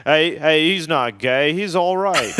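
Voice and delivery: loud Australian vouching for a mate; Australian accent. Retold or imitated. Australian travelers accepting him after all, in a mock Australian accent. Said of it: "that's what they say".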